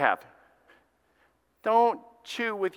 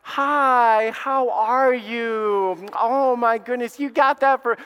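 higher, sugary mock hostess voice; fake sweet greeting; 4 semitones higher, 4 dB louder, much slower than usual. Preacher acting a parent greeting a visitor, put-on sweetness. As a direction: switch to company-manners sweetness.

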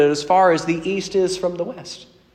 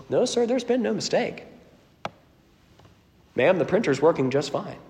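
gentle clerk; 4 semitones higher, 5 dB quieter than usual. Retold or imitated. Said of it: "the man just smiles at you and says".

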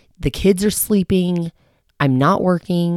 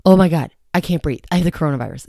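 panicky inner voice. Retold or imitated. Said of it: "the other side is like".

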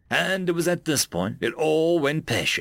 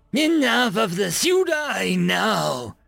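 furious shout, dragged out slowly; screaming; 8 semitones higher, 3 dB louder, slower than usual. Acted. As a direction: scream it in a rage. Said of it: "Kraken screamed".

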